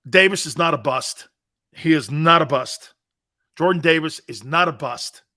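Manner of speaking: emphatic insistence. Real, not acted. Radio host insisting to callers, emphatic loud denial. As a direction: defend him hard, punching every word. Insisting his player is no bust.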